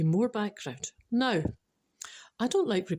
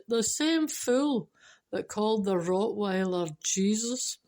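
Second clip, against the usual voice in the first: parrot's retort; slower than usual. Acted. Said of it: "And the parrot said".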